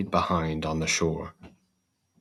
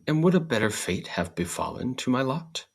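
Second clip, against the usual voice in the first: straw's voice; 6 semitones higher than usual. Acted. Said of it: "said the straw".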